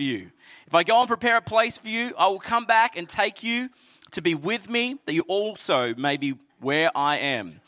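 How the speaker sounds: measured, earnest Bible reading; scripture reading. Acted. Pastor reading John to the church, solemn. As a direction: read the words of Jesus with weight.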